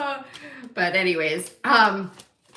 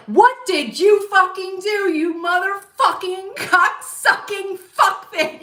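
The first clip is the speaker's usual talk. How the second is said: high, loud mock tirade breaking into laughter; loud, high cursing rant, half laughing; retold outburst; 9 semitones higher, 5 dB louder, slower than usual. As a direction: re-enact going off on them, drawing out the curses. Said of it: "You know, I went off".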